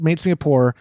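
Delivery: normal talking voice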